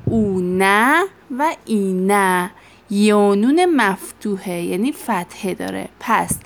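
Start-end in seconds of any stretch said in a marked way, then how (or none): 0.0-2.5 "اونه و اینه" drawn out very slowly, each ending clear; dictated endings. Shown as a demonstration. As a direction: spell the endings out slowly for the class. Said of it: "اینجا علامت جمع". (ادای شمرده و کشیده پسوندها)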